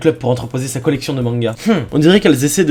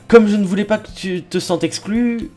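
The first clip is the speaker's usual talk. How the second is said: lightly voiced girl character, slightly raised pitch; shy bookish girl; 3 semitones higher than usual. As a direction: gently offer it in a light girl voice. Voices shy Yuri offering a book.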